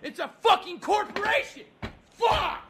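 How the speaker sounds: angry rant climbing in pitch; exasperated outburst. Acted. Furious caller rants at restaurant worker.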